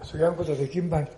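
quick, loud Kumamoto-dialect aside. Acted. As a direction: toss it out fast in Kumamoto dialect. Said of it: "それこそ熊本弁で".

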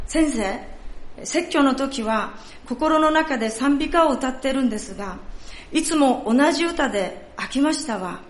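a lightly played elderly woman in Kansai dialect; Kansai accent. Pastor voicing the old woman asking about her hearing, in a Kansai accent. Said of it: "ちょっとここから関西弁になりますので".

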